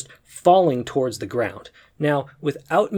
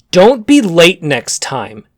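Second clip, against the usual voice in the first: menacing warning; 9 dB louder, slower than usual. Retold or imitated. Woman threatens him mid-duel.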